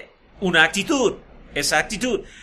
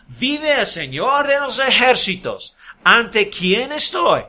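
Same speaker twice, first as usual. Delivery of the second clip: slow, higher, pointed sarcasm; sarcastic oath; 3 semitones higher, slower than usual. Retold or imitated. Eliseo answering the king with slow pointed sarcasm. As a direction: stretch it out with a knowing edge. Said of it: "sarcásticamente".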